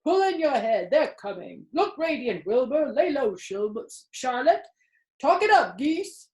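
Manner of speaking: high, urgent hurry-up; excited barn voices. A narrator's reading. Animals rushing to hide as the men come. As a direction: hiss a warning, then cheer.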